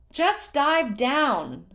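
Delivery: high, loud slow shout. Acted. Tula shouts up to Groove on the tower, loud. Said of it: "Tula shouted to Groove".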